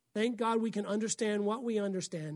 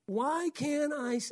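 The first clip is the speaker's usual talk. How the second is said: whiny voice; 6 semitones higher, slower than usual. Retold or imitated. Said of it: "I can hear his whiny voice".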